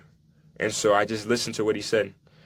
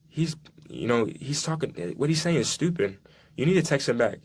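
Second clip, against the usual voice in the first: lightly voiced mom, pitched higher; a hint of an indignant mother, raised pitch; voicing his mom; 4 semitones higher than usual. Mom telling her son to text the coach, higher indignant voice.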